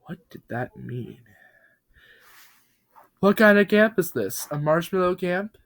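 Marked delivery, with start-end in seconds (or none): 3.2-5.5 eager, high little truck voice; excited truck. Acted. Talking truck asks Bob about the camp, excited and high. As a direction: pitch it up with childlike excitement. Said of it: "One of the trucks said out loud, excitedly".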